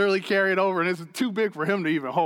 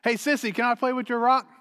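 son's voice; 4 semitones higher than usual. Retold or imitated. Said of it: "and goes".

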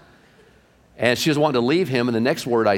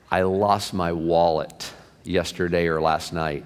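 low, slow retelling of a downcast man; mildly dejected, pitched down and dragging; bummed out; 5 semitones lower, slower than usual. Retold or imitated. A pastor tells of his lost wallet, bummed out. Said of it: "bummed and burnt out".

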